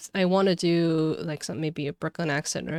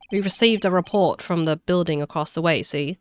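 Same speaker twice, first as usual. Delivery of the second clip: makeshift Cockney detective; lightly attempted Cockney report; attempted Cockney accent; 4 dB louder than usual. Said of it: "give him a Cockney accent".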